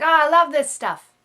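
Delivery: put-on high, loud, gushing English accent. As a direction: imitate an enthusiast with a bit of an English accent. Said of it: "he has a bit of an English accent".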